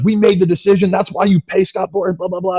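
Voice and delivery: mock the father laying down the law; dad yelling. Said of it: "he's, like, yelling at me".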